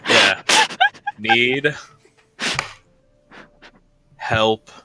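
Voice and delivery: slow, word by word, spelling out a sending message; measured dictation; dictating a message. Acted. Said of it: "all right, twenty-five words".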